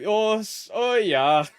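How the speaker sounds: loud, hammed-up generic German-ish accent; mock European accent. Shown as a demonstration. Streamer mocking their own one-size-fits-all accent, mock European accent. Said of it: "every accent sounds like this".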